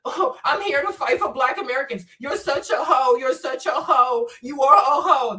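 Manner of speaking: a touch of mock outrage, voicing the insulting commenter. Streamer parrots a rude commenter's insult in mock voice. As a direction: throw the insult back in a lightly mocking voice. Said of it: "This is how you represent Black Americans".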